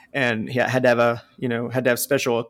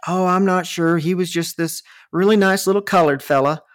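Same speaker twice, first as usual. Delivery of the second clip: a lightly voiced sweet little lady, a bit higher; imitating old woman; 5 semitones higher than usual. Retelling a customer's reply in a higher little-lady voice. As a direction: mimic her prim, chirpy tone. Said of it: "who had been there from the company prior".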